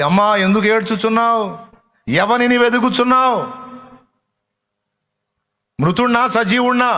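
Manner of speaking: dramatic, high-pitched biblical quote; preacher voicing Jesus. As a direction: question the weeping woman in a high preaching cry. Voices Jesus questioning the weeping woman.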